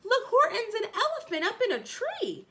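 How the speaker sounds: high, loud taunt with a laugh; mock him, laughing and shouting; high laughing jeer at the elephant; gleeful shout. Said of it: "they shouted with glee".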